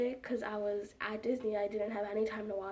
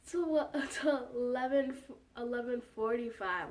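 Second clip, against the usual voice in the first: gate announcer with giggles. Retold or imitated. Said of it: "she's like".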